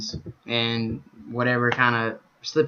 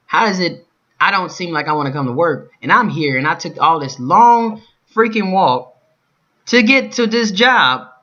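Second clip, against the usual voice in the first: rising, louder, slowing angry rant; indignant outburst; 4 semitones higher, 4 dB louder than usual. Retold or imitated. Vlogger venting at his boss, rising angry. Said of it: "This is how I feel now".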